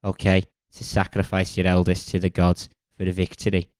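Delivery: put-on light Scouse accent as a weary old king; lightly voiced Scouse Agamemnon. Agamemnon warns schoolkids in a light Scouse accent. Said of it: "I've made him Scouse".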